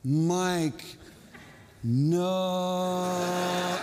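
mock cry with a drawn-out no; imitated long cry of refusal, not truly shouted; retold loud plea. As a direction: call up in protest, stretching the no. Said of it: "in my loudest voice again".

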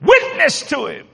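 high, slow, commanding voice of God; the Lord's voice. Acted. The Lord interrupting the angry driver, slow command. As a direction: call it out slowly as a divine command. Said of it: "I heard the Lord said".

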